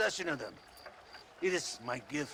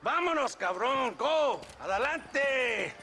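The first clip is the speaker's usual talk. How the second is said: shouted order; 6 semitones higher, slower than usual. Acted. Colonel orders DeSanta to ride out, shouted order. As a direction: send the men off at a shout. Ordering his man to move out.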